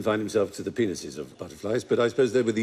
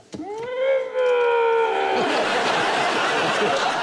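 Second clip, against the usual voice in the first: high laughing shriek; puffed-up pufferfish; 6 dB louder than usual. Pretend. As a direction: squeal with laughter. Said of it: "your impression of a pufferfish on the pull".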